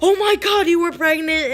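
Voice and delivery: high, loud mock gasp of disbelief; loud, astonished outburst, re-enacted; retold shocked exclamation. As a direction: imitate a stunned mother exclaiming.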